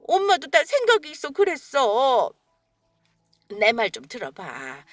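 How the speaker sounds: ordinary delivery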